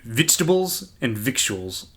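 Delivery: "Vegetables" said to sound like "victuals", New Zealand accent. Shown as a demonstration. Comparing two words for co-host, New Zealand accent. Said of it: "vegetables with a New Zealand accent sounds like victuals".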